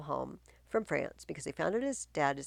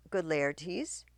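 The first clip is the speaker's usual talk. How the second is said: calm the angry son down. Acted. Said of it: "The queen says calmly".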